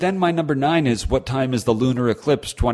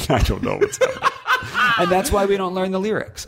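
laughing; 6 semitones higher than usual. Real, not acted. Laughing at own singing.

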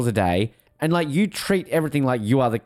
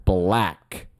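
slow high mock voice; 11 semitones higher, much slower than usual. Bond-style line, slow and high.

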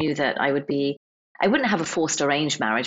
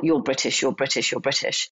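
dad's insult; 4 semitones lower than usual. Retold or imitated. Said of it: "he used it as an insult".

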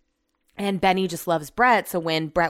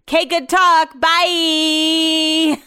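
sarcastic brush-off; 9 semitones higher, 8 dB louder, much slower than usual. Retold or imitated. Curtly ending husband's pointless call.

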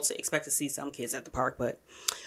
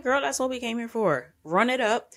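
excited quote; 7 semitones higher than usual. Retold or imitated. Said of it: "we was like".

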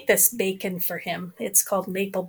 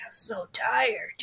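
weary whisper; 5 dB quieter, slower than usual. Retold or imitated. Husband weary reply.

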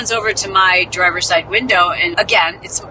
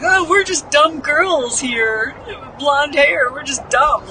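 put-on higher, slow ditzy girl voice; mock ditzy blonde; 6 semitones higher, slower than usual. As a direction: play the airhead, slowly and sweetly. Mocking themselves as dumb blondes.

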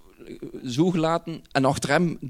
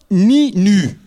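exasperated thought; 5 semitones higher, 9 dB louder than usual. Retold or imitated. Thinks while thief taunts him.

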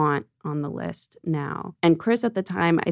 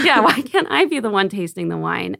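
higher, exasperated protest with laughter; frustrated retort; 4 semitones higher, 4 dB louder than usual. Retold or imitated. Wine buyer to dismissive reps, laughing frustrated plea. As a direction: push back, amused at your own frustration. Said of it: "just so frustrated".

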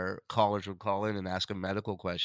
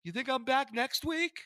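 imitated sheepish friend; 13 semitones higher, 3 dB louder than usual. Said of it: "he'd go".

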